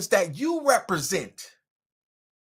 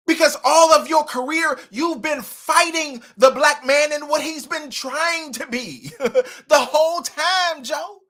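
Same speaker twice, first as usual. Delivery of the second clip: heated rant; 6 semitones higher, 6 dB louder than usual. Real, not acted. Ranting at Joe Biden.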